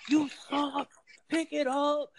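high, sharp mock yell at players; mock harsh yeller. Coach imitating a harsh yeller at his players. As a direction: imitate a coach tearing into a kid. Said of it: "I'm not the yeller as in".

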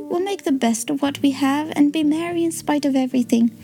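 put-on girl comforting a hurt robin, gently; Tilly's gentle child voice. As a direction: soothe a frightened bird like a kind child.

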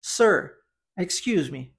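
"Sir, excuse me" said clearly, pausing after "Sir"; model pronunciation. Shown as a demonstration. Teacher giving learners a phrase to repeat, clear model "Sir, excuse me". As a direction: model "Sir, excuse me" for repetition, falling at the end. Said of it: "Eu vou falar a frase e você repita".

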